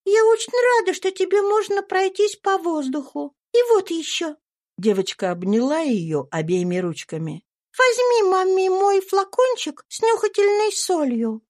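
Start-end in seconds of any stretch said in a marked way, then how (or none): 0.1-4.4 put-on high, bright child's voice; little girl Eva. A narrator's reading. 7.8-11.4 put-on high, bright child's voice; little girl Eva. A narrator's reading.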